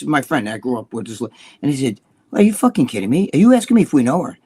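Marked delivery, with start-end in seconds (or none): 2.3-4.4 incredulous mock outrage; incredulous retort. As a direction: retell it as an indignant question. Acted disbelief at friend's question.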